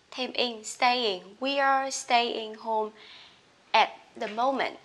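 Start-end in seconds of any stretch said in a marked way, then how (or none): 1.4-4.8 very slow, each word separate; slow classroom read; slow model reading. Shown as a demonstration. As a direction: dictate it slowly. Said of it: "slow model read of phrase".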